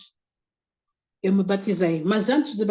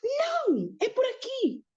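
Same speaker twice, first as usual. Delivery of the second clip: very high-pitched mock yelling, held back in volume; thin-volume, high retold shout; imitated shout; slower than usual. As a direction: imitate him yelling, voice leaping right up. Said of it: "Ele gritava comigo".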